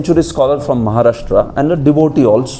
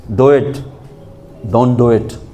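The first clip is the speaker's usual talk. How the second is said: commanding king. Retold or imitated. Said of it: "क्या कहता है राजा?".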